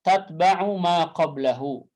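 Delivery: slow chanted phrase; quoting the rule; recited phrase. Shown as a demonstration. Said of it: "quotes verse phrase".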